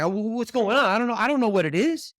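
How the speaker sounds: flustered, high-pitched mock panic; acted panic. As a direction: voice rises as you panic, clueless. Acting out his panic at signs.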